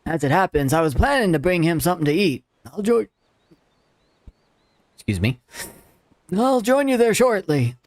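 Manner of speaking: a hint of a grumpy old man. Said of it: "old man voice".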